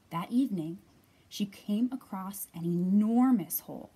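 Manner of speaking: put-on lively read-aloud for young children; clear, projected picture-book reading; story narration. A narrator's reading.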